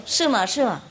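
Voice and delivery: put-on child explaining. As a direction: spell out the sums like a puzzled child. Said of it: "那个小孩就说".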